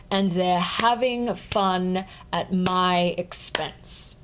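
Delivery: slow, measured reading with beats on strong syllables like DEL in "Indelible"; clapped-out rhythm. Shown as a demonstration. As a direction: lean on each stressed syllable, "laughter" on LAUGH, unhurried. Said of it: "clap the rhythm of the words as I'm going".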